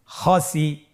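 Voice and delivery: "খসি" run together as one word; syllables joined. Shown as a demonstration. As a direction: blend both syllables of "খসি" without a break. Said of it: "এভাবেও পড়তে পারেন". ("খসি" একসাথে মিলিয়ে)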